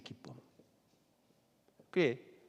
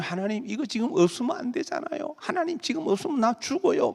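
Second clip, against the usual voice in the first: desperate plea; 5 semitones higher than usual. Retold or imitated. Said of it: "막 이러면서".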